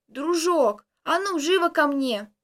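put-on loud old woman calling her dog; hoarse old woman shouting. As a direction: bark it like a village granny. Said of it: "сиплым голосом прокричала". (громкий окрик старушки)

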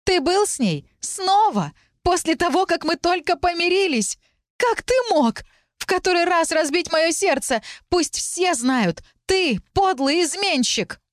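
staged heartbreak scream ending in slow, drawn-out insult; jealous shouting. Acted. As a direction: wail the betrayal for all to hear. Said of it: "продолжала я кричать".

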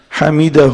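"حمده" with the final ha voiced as a long hu; pronoun ha voiced. Shown as a demonstration. Teacher showing the pronoun reading, "حمده" said hamidahu. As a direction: end "حمده" on a drawn-out -hu. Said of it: "إذا قلنا هاء الكناية".

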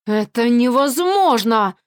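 hoarse, slow rasp. Acted. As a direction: rasp it out in disbelief. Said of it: "сипит Бранаур".

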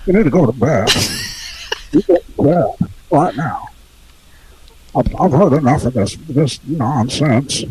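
filtered stern grandpa; grumpy grandpa. Pretend. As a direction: scold like an old grandpa. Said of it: "be the grandpa who picks up".

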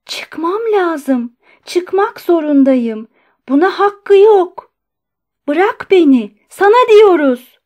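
high, slow insistence rising to a shout; emboldened demands. A narrator's reading. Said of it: "bağırmasından cesaret bulan Andrei Yefimiç".

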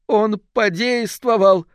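slow, high drawn-out moan. Acted. Fiona moans that the ritual worked, in dread. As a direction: let it wring out of her. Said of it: "простонала Фиона".

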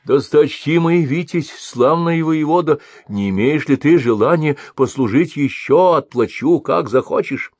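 put-on high, loud obsequious old trader; fawning merchant. A narrator's reading. Merchant switches to flattering the warrior, fawning. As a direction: flatter him sweetly now. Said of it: "сменив недовольство на угодливость".

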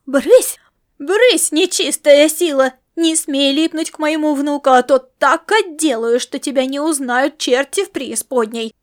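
loud, furious driving-off of an evil spirit; angry shout. Acted. Grandma shouts at the star cat. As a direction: yell at the cat to get lost.

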